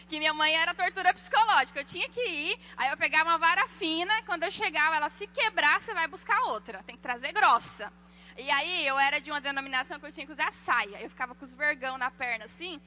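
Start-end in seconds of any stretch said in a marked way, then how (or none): 5.1-7.9 louder stern mother's threat; strict mother. Retold or imitated. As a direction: warn that a thin switch won't do. Mother threatens over the switch.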